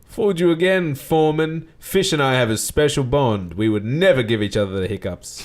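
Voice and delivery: a hint of smug showman; Bert voice. Bert teasing John after elbowing him, lightly smug.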